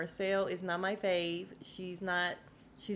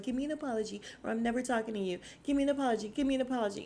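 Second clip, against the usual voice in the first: fast, higher, whiny mock insistence; mocking demand; 4 semitones higher, much faster than usual. Mocking the cast's demands for apologies, whiny. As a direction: rattle it off like a petulant child. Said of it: "They just be like".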